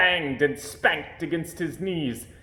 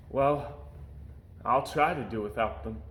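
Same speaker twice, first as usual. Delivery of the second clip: heartbroken sigh. Acted. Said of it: "answered with a heartbroken sigh".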